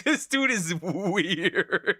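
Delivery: "This dude is weird" slowly through laughter; slow laughing repeat; laughing disbelief. Real, not acted.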